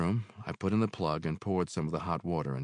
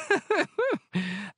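high, warm laugh; landlady chuckling; Mary's chuckle; 5 dB louder than usual. Acted. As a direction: laugh at her own saying. Mary laughs.

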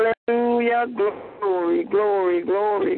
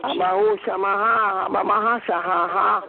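speaking in tongues. Real, not acted. Prayer in tongues.

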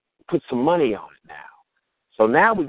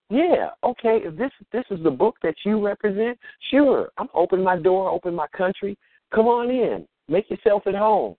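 gushing shopping channel caller; 8 semitones higher than usual. Retold or imitated. Sarcastic welcome to invading colonizer.

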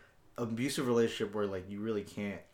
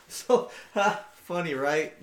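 mock lonely laugh; 7 semitones higher, 5 dB louder, much slower than usual. Mock self laughing alone.

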